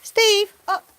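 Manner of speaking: high call; command. Real, not acted. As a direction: urge him up. Training command.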